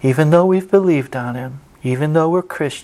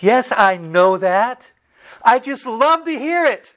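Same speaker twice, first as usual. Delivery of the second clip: put-on slow, high, gleeful old veteran; joke punchline; 8 semitones higher than usual. Old veteran telling the guard, slow gleeful punchline. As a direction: deliver the punchline slowly, pitched up.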